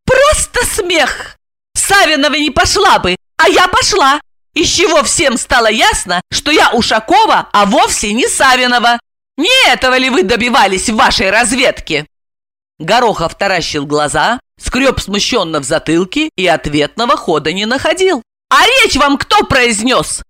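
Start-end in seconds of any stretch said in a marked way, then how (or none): 0.1-12.1 high, sarcastic woman's voice; exclaiming heroine. A narrator's reading. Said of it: "воскликнула Ася". 18.5-20.2 high, slow, proud challenge; proud question. A narrator's reading. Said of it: "гордо спросила Ася".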